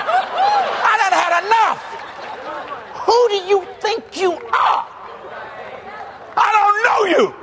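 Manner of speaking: high, drawn-out acted outburst; retold anger. Preacher who has had enough of critics, angry. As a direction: re-enact being fed up, slow and high. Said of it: "I got mad".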